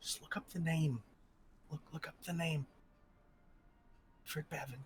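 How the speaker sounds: soft, hushed undertone. Retelling how a man told the speaker to look up a name, imitating him dropping even quieter. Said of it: "he lowers into even quieter voice than he already had".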